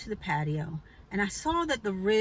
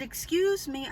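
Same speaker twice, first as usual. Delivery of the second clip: "Excuse me" pitched high, composed; more emphasis; 7 semitones higher than usual. Retold or imitated. Slightly annoyed at the neighbor, "Excuse me" high and emphatic. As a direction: press on "Excuse me" with a higher pitch. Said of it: "with a little bit more emphasis".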